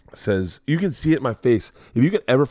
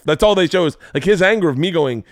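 heated retelling; 7 semitones higher, 4 dB louder, faster than usual. Real, not acted. Excited retelling, louder.

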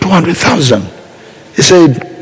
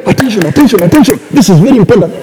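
rising announcer calls of attention; mock announcement; 4 semitones higher, much faster than usual. Shown as a demonstration. Preacher mocking God as a loudspeaker announcer. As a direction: call it out like a public announcement. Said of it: "God will not tell you".

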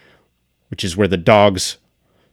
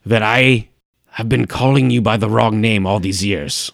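mock disturbed host; 2 semitones higher, 3 dB louder than usual. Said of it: "I'm very disturbed right now".

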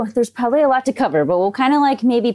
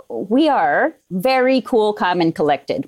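slow and calm; slower than usual. Shown as a demonstration. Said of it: "always joke with anesthesia".

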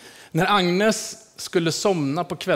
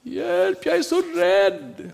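high, slow, louder fearful plea; frightened old lady; 9 semitones higher, 4 dB louder, much slower than usual. Retold or imitated. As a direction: plead like a scared old woman at bedtime. Agnes rädd i sängen. (rädd gammal dam, hög och långsam)

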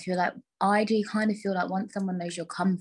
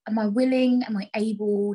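breathy high whisper; 4 semitones higher, 5 dB louder than usual. Real, not acted. Dramatic self-questioning.

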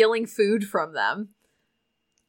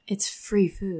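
whisper; 6 dB quieter, slower than usual. Acted. Marin whispering reply.

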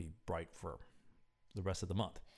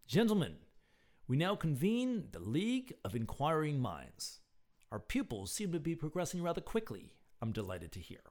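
put-on higher-pitched voice with a light French accent; slight French accent; 7 semitones higher, 3 dB louder than usual. A narrator's reading. Leader convening the League of Inquiring Minds, slight French accent. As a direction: address them with a touch of French accent. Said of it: "In a slight French accent".

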